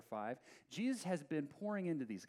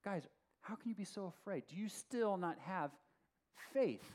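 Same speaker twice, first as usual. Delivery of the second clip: higher-pitched, pointed questioning; rebuking; 3 semitones higher than usual. Retold or imitated. Jesus to his frightened disciples, mildly rebuking. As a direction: reproach them, pausing before the last word. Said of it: "he rebuked the disciples".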